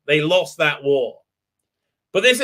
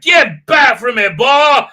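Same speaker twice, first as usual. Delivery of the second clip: slow, loud, higher cartoon villain yell; mock racist shout; 7 semitones higher, 7 dB louder, slower than usual. Reviewer mocking the racist man, loud slow cartoon shout. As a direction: bark it like a cartoon bigot. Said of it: "and he's like".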